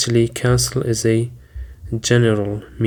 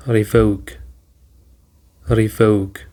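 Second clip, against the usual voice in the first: revoke with the weight on VOKE; stress on second syllable; slower than usual. Shown as a demonstration. Teacher modelling the word for students, stress on VOKE. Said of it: "the stress is on the second syllable".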